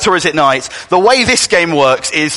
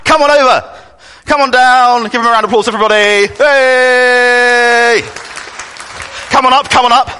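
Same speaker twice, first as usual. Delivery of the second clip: game show host; 7 semitones higher, 3 dB louder than usual. Pretend. Calling contestant up, game show.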